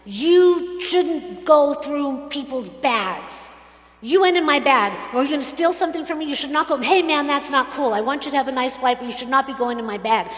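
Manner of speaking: loud, indignant mock rant; retold screaming. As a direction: imitate a passenger yelling at his seatmate. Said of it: "starts screaming at the man".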